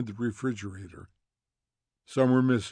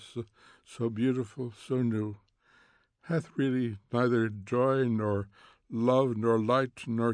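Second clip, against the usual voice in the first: poem reading. Acted. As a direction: read the verse gravely to the women. Montag reading poem aloud.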